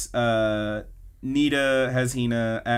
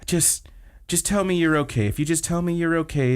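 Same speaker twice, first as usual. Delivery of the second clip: higher, halting imitation of concern; heartfelt plea; 5 semitones higher than usual. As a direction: plead gently, lightly acting the worried friend. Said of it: "this really heartfelt thing to her".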